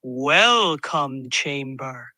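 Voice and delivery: low slow rumbling voice; rumbling Sasquatch. Acted. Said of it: "his voice rumbling".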